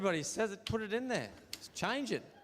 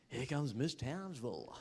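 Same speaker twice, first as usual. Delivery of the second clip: mock pageant announcer; 3 dB quieter, slower than usual. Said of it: "somewhere like Townsville".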